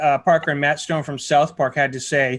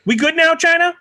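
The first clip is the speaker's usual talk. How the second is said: sarcastic; 11 semitones higher, 4 dB louder than usual. Acted. Mocking sign-off after reading apology.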